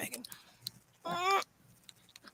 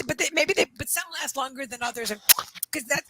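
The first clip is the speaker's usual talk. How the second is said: ordinary talk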